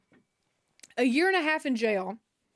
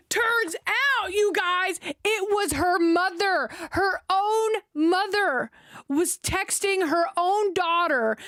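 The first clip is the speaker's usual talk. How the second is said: shocked reveal; 4 semitones higher, much slower than usual. Real, not acted. Telling her audience the shocking twist, high stunned disbelief.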